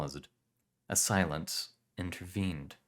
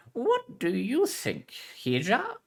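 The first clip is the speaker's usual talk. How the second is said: put-on Spanish accent; 4 dB louder, slower than usual. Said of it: "Spanish heritage".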